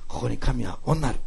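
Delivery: slow, careful Nagasaki dialect. Retold or imitated. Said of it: "長崎弁でちゃんと言いますように". (長崎弁をゆっくり真似て)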